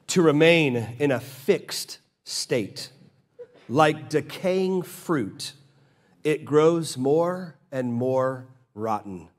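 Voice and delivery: slow, weighty reading of the quote; quotation reading. Acted. Preacher reading Spurgeon to the congregation, slow and grave. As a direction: read it like a warning, slowly.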